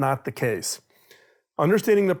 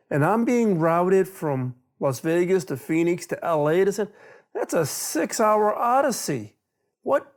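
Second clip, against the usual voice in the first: incredulous disbelief; 3 semitones higher than usual. Retold or imitated. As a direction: replay the shock of a six-hour detour, rising to a squeak. Agent reveals six-hour routing.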